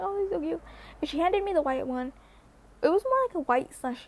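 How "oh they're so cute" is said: cooing over puppies. Retold or imitated. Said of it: "I'm like".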